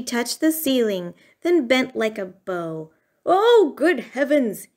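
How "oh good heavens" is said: storybook gasp of alarm, pitched up; dismayed gasp. A narrator's reading. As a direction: exclaim in mild shock. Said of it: "he gasped".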